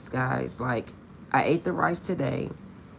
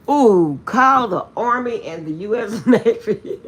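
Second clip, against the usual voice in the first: mock alarm; 6 semitones higher, 9 dB louder, slower than usual. Mock alarm over weight loss.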